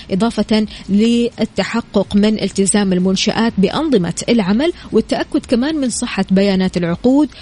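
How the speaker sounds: normal talking voice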